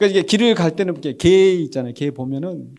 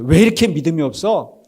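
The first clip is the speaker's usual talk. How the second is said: louder, sharp scolding question; mock rebuke; 6 dB louder than usual. Jesus as if rebuking his disciples, mock scolding. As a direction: scold them for doubting, acted. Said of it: "제자들한테 꾸짖으시면서".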